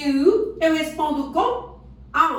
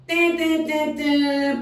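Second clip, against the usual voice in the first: buzzer noise; 2 semitones higher, slower than usual. Shown as a demonstration. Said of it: "Tá errado".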